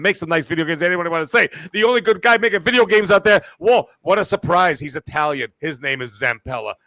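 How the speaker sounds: a cocky know-it-all character, only slightly put on; Tony Baloney character. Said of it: "You made me break character".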